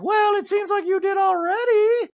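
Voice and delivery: high, loud, slow mock Dorit; Dorit impression. Recapper mocking Dorit's snide retort, high and loud. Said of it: "And Dorit's like".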